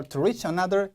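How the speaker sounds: "reach" clipped short like rich in "to reach another"; too-short reach. Shown as a demonstration. Teacher showing what loses marks, short "reach". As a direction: rush the vowel of "reach" in "to reach another". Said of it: "이렇게 짧게 읽으면은".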